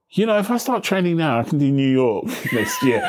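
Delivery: high, bright-eyed resolve to run again; a runner already planning the next race, perked up and eager. Retold or imitated. Mock-eager runner vowing to train again. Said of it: "you sit there and you go".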